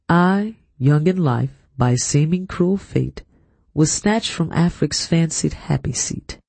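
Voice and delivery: slow, measured verse recital; poem reading. A narrator's reading. Narrator reading the chapter's opening verse, slow recitation. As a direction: recite it deliberately, phrase by phrase.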